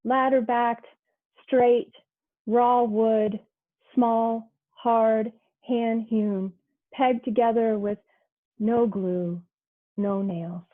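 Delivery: measured, unhurried poem recital; poetry reading. Acted. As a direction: let each image land with its pause. Poem read aloud.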